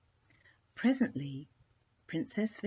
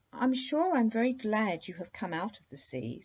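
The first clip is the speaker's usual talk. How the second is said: polite princess; 5 semitones higher than usual. Acted. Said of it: "said the princess politely".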